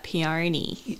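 peony drawn out in an Australian bogan accent. Shown as a demonstration. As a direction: say peony like an Aussie bogan, softly, with a rise. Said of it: "with the Australian bogan accent".

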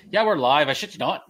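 lightly imitated Colin Farrell brogue; a quick nod to Colin Farrell's Irish lilt; a hint of Irish accent, live on air; mock Irish accent. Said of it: "It's like".

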